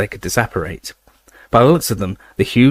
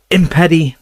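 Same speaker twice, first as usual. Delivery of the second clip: high loud cut-off jinx; shouted spell; 7 semitones higher, 4 dB louder than usual. Acted. Spell cast in duel.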